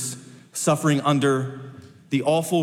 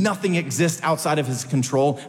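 "Nothing" lifted with a rising tune; stress on nothing. Shown as a demonstration. Preacher stressing to the congregation that nothing escapes, stress on "Nothing". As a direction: lean hard on "Nothing" to open the line. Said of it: "I said nothing".

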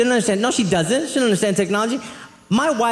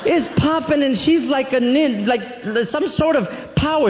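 laughing, half-shouted amazement, higher and slow; excited; 5 semitones higher, slower than usual. Real, not acted. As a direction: burst out laughing in awe. Marvelling at grandma dodging grease.

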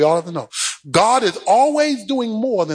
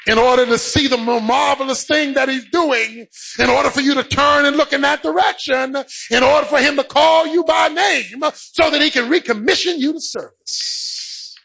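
insistent pulpit rhythm, climbing phrase by phrase; mounting preacher's fervour; building sermon cadence; 7 semitones higher than usual. Real, not acted. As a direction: preach it in rising, repeated waves.

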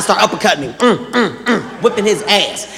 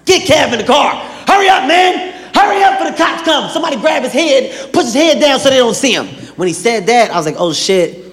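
high, urgent scolding shout; hyped-up yelling; 4 semitones higher than usual. Retold or imitated. Nate hustling Kev into the car, hyped and scolding. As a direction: rush him and scold him. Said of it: "He was hype as shit".

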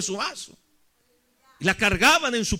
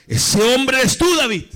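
Natán; 4 dB louder than usual. Retold or imitated. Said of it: "qué le dijo el profeta Natán". (acusación de profeta, lenta y firme)

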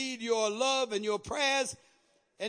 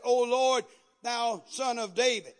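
raised call on the opening words; crying out; 4 dB louder than usual. Retold or imitated. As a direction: quote her plea in a preacher's call. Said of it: "cried unto him".

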